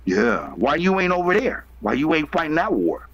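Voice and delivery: ordinary delivery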